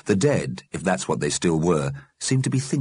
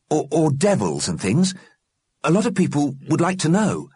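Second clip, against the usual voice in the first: put-on curious boy's voice; 9 semitones higher than usual. Johnny asks questions.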